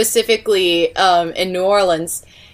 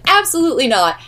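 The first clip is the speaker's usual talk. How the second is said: higher-pitched retold refusal; emphatic refusal; 5 semitones higher, faster than usual. Daughter repeats her answer to mom's tour idea, emphatic refusal. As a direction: put a firm, mildly mock stop to it.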